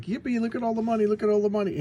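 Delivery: a robber squealing over his loot; gleeful yippee. Retold or imitated. Robber finds the hidden money and shouts with glee. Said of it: "He's like".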